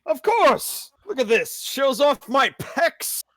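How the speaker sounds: high, loud show-off voice; boastful knight. Pretend. Knight showing off his armor to the party, boastful.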